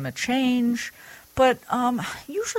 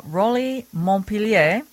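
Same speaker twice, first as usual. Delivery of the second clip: put-on name said slowly in a French accent; fake French accent; 3 semitones higher, 3 dB louder than usual. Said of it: "Did I do my fake, fake French accent".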